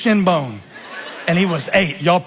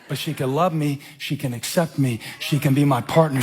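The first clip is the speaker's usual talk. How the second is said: tender hope; 3 semitones lower, 4 dB quieter than usual. Acted. Tender turn after despair.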